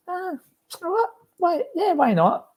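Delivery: high, eager retold yes; excited.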